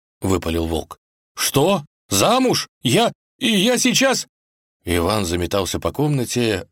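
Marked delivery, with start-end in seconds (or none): 1.4-4.3 резко выше, ошеломлённый крик; сбитый с толку парень срывается на высокий голос; ошарашенно. Acted. Иван узнал про свадьбу Василисы. (ошеломлённо и громко)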